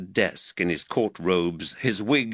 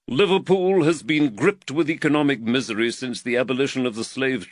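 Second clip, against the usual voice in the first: slightly raised, earnest magistrate voice; the worried magistrate, lightly voiced a touch higher; voice of Reed; 4 semitones higher, 3 dB louder than usual. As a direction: magistrate fretting over costs, lightly voiced.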